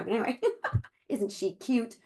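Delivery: laughing through near tears; teary laugh. Real, not acted. Showing her mom's photo to the team, real teary laughing. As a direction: choke up a little, then laugh it off. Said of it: "I don't know why I'm gonna cry".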